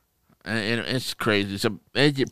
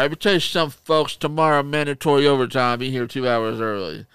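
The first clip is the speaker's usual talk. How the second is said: loud, raised mock mobster order; mob-boss manager; 4 semitones higher, 4 dB louder than usual. Manager imposing mandatory overtime, mock mob boss. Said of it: "They ran out like the mob".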